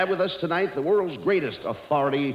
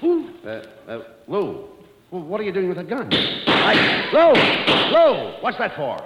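mock panic; 7 semitones higher than usual. Abbott frightened by a gun.

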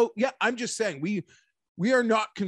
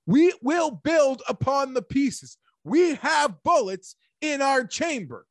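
higher, louder and slow, every word hammered home; rally the fans, punching "We" hard and loud; emphatic rallying declaration; 6 semitones higher, 4 dB louder than usual. Real, not acted.

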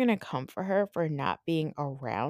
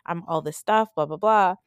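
lightly voiced Kandi; faster than usual. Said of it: "it's like Kandi is here saying".

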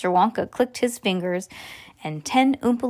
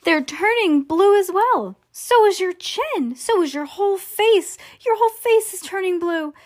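high, sustained storybook alarm; panicking mother, pitched way up; screamed panic; 10 semitones higher than usual. A narrator's reading. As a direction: wail it high in mounting panic. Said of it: "screams Missus Beauregard".

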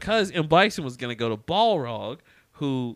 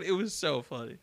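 ordinary delivery

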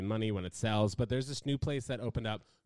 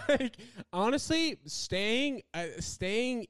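high laugh in the voice; 12 semitones higher, much slower than usual. Real, not acted. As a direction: laugh as you speak. Laughing after joke.

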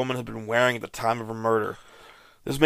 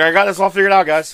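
louder, higher mock boast; smug detective; 6 semitones higher, 7 dB louder than usual. Cohost teases friend as a smug detective. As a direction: brag like a know-it-all sleuth. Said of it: "You're like".

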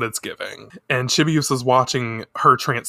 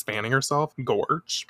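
ordinary talk, nothing marked

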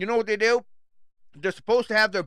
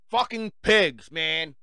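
angry; 3 semitones lower, much slower than usual. Real, not acted. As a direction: spit it out slowly in anger. Angry slow curse.

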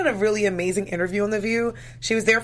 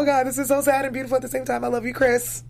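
raised pitch, lightly acted overwhelm; retold emotional gushing; 5 semitones higher than usual. Viewer retelling her reaction to Chris's gift, lightly emotional gushing. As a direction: gush a little, as if moved by it. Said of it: "I got super emotional".

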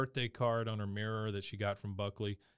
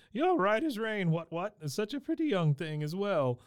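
lightly voiced, high, jolly British gentleman; a hint of a pompous old English gent; posh gent impression; 7 semitones higher than usual. Retelling the puppet gentleman to a co-host, lightly voiced jolly Brit. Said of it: "Sir Reginald Featherbottom".

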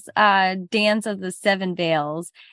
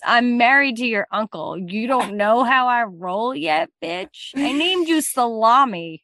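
villainous mother. Acted. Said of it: "mother voiced".

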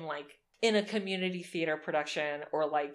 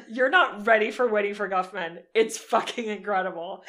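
excited; 7 dB louder than usual. Real, not acted. Raving about a film.

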